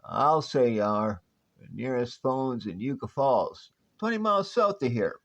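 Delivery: a hint of a crusty old Western prospector accent; lightly drawled old-timer Western accent. Old prospector accent scaring off visitors to his town. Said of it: "Your accent".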